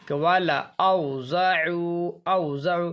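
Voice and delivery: drawn-out recitation, alif left silent; slow tajweed recitation; Quranic recitation. Shown as a demonstration. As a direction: recite it slowly with the alif unspoken. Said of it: "silent है".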